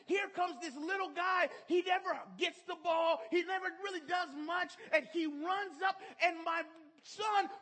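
high, loud, building play-by-play; excited storytelling. Real, not acted. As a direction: call the play like the final seconds.

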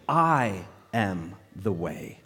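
slow and low, each word set apart; low, measured scripture quote; solemn, emphatic quote. Retold or imitated. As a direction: quote it slowly, with weighty pauses. Solemn quote of Jesus' key verse.

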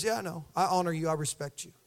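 calm the king down gently; a quiet, low nod of respect; respectful reassurance. Retold or imitated. Elisha answering the king respectfully.

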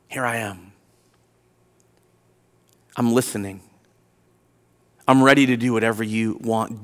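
very low, hushed, with long pauses; quiet surrender. Acted. Abraham surrendering to God's call, hushed and submissive. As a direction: yield softly, deep in the voice.

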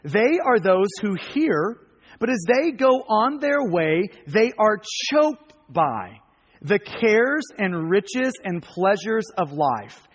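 slow, measured Bible reading; scripture reading. Acted. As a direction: read the verse out slowly, phrase by phrase. Reads scripture aloud to congregation.

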